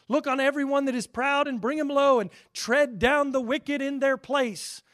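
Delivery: loud, ringing scripture reading at full force; booming King James preaching. Acted. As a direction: proclaim it like God thundering.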